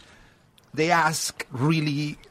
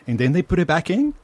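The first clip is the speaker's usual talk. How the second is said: higher, louder imitation of a kid's question; astonished child; 4 semitones higher, 5 dB louder than usual. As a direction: mimic a small daughter's amazed question. Daughter's astonished question, retold.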